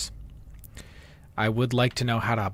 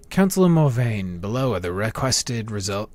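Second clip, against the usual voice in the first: put-on Dark Elf accent. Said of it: "my Dark Elf voice got stronger".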